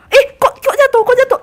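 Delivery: high, loud startled yelp; real gamer alarm, high and loud; alarmed outcry. Real, not acted. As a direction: cry out as you suddenly fall. Startled at falling in game.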